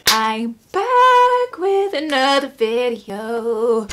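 loud drawn-out vlog greeting; shouting. Real, not acted. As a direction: shout the greeting, stretch the last line out long. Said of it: "I don't know why I'm shouting".

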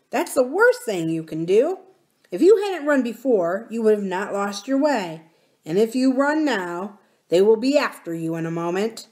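put-on blunt, firm young miner; boy warning with some force; lightly voiced miner boy. Miner boy warning nurse about sharp-eared goblins, blunt.

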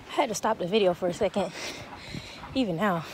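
winded from climbing the hill; out of breath. Real, not acted. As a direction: talk between breaths. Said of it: "I'm out of breath".

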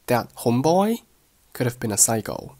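"homeboy" rising, "could have been a" light; rise on homeboy. Shown as a demonstration. Teacher models the first sentence, rise on "homeboy". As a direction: lift "homeboy" at the end, then fall on "psycho". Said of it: "homeboy语调上扬".

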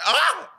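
high excited squeal; sudden high-pitched "ah"; excited yelp. Real, not acted. Podcaster bursting to tell co-host a wild story, excited yelp.

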